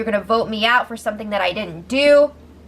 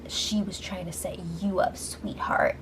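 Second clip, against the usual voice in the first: soft mock-sweet hush, softer; sarcastic sweetheart; 4 semitones lower, 11 dB quieter than usual. Bailey needling Tyler mid-fight, soft mock-sweet. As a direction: purr "sweetheart" like a patronizing jab.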